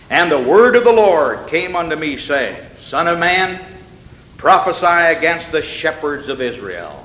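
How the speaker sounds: measured, solemn Bible reading; scripture reading. Acted. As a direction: read the verse like sacred text.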